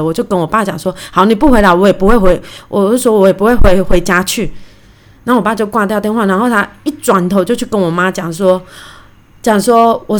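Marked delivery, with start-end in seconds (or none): 1.1-4.5 louder, heated threat to the father; angry retort. Retold or imitated. Daughter losing her temper at her stubborn dad, angry loud retort. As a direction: snap back hotly, no longer holding the temper. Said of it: "我真的就火上来了".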